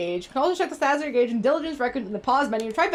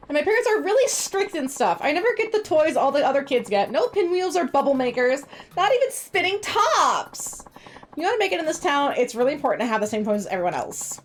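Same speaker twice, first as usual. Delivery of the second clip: put-on whiny kid voice. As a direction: complain like a sulky kid. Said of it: "I have the whiny kid voice down pat".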